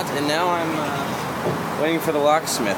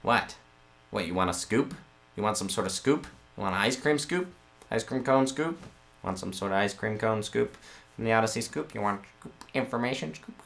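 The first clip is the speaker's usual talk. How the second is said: quiet; 3 semitones lower, 9 dB quieter than usual. Real, not acted. Playful teasing muttering to camera.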